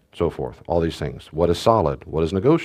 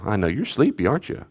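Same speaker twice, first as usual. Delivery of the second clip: put-on soft, tender words to a crying baby; gentle soothing; 3 dB quieter, faster than usual. A dad soothing his sleepy crying baby, softly and tenderly. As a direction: soothe him quietly. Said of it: "talk so gently to him".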